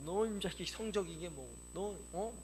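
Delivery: put-on parent telling off a teenager; mock scolding. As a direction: act out a parent's rebuke. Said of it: "꾸중하는 거예요".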